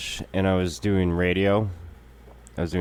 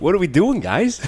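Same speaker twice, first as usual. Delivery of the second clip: mock exasperation; 11 semitones higher, 5 dB louder than usual. Mock steering the chat.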